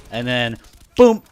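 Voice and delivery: slow, loud punchline boom; dramatic reveal beat; comic emphasis. Acted. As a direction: land the boom hard and slow.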